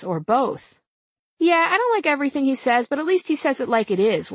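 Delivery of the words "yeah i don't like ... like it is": put-on college girl voice. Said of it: "one of the girls said".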